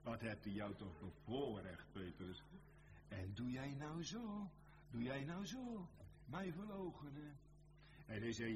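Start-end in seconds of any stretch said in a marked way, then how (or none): 3.1-7.4 pained reproach. Acted. Preacher as the Lord asking Petrus about denying him, pained reproach. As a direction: question him in lifted, disbelieving reproach.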